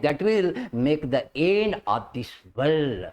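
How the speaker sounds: very slow dictation. Shown as a demonstration. Teacher dictates English notes.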